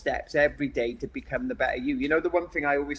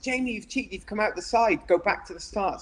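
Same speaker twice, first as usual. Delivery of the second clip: higher-pitched imitated scolding; headmaster telling off; 5 semitones higher than usual. Headmaster sending a young runner back, imitated telling-off. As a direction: imitate a headmaster calling out a cheat. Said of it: "my master said".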